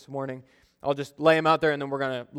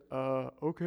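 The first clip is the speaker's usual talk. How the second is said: startled; 3 semitones lower, 11 dB quieter than usual. Retold or imitated. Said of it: "the person goes".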